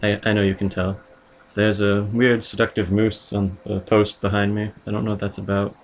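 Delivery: distant roomy sound; recorded in a far room; from another room. Real, not acted. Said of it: "still recording in a different room".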